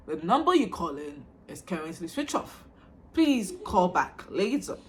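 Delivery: lightly voiced automated operator; imitated phone recording. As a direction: recite it like a network announcement. Imitates phone network's recorded message.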